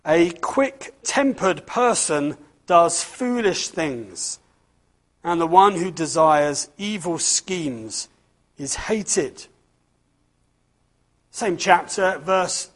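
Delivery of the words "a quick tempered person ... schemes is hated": slow, measured Bible reading; scripture reading. Acted. Preacher reads Proverbs to the children, measured. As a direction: read the verse with weight.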